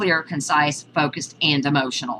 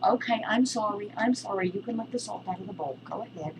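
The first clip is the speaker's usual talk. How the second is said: resigned; 4 semitones higher, 8 dB quieter than usual. Real, not acted. Giving in to the dog.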